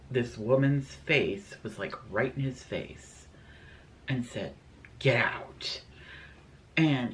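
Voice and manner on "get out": breathy unvoiced whisper close to the ear; ghostly whisper. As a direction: hiss it like a ghost leaning over him. Ghost whispers in his face.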